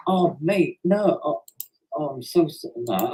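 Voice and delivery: hammed-up, unconvincing "oh mate, no"; unconvincing emotion. Shown as a demonstration. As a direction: try to force some feeling into the dismay. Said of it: "that sounds really unconvincing".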